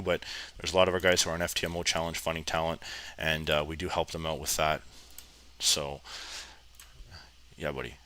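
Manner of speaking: croaky, groggy voice with a headache. Real, not acted. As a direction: talk through a groggy, croaky throat. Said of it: "my voice is all croggy".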